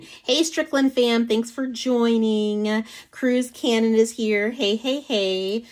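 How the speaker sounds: high, loud, bright welcome to the chat; cheery high-pitched hello to the live audience; excited greeting. Real, not acted. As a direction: call out hello to arriving viewers. Greeting viewers joining the live.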